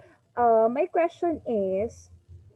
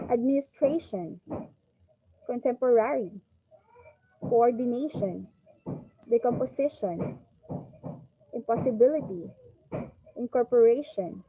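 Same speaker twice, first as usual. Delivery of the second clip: administration, coordination, incorporation, each peaking late in the word; word-list demo, TRA in administration, RA in incorporation; fourth-syllable stress. Shown as a demonstration. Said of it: "For fourth syllable words".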